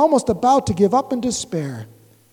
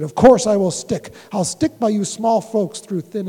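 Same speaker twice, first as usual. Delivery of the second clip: firm Horton promise. Acted. Horton answers, repeated.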